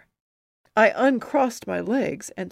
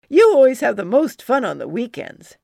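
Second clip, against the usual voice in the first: put-on admiring kid; 4 semitones higher, 10 dB louder than usual. Admiring spectator.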